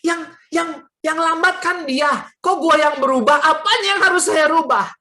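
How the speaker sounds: high stammer building to loud indignation; re-enacted flustered, indignant retort; startled protest. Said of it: "Saya kaget".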